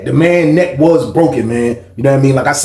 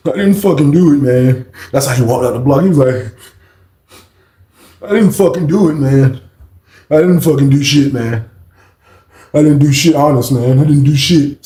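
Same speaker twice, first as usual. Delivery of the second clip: louder, insistent denial; loud protest; 4 dB louder than usual. Retold or imitated. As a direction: keep insisting as they drag him out. Shane protests as he is taken.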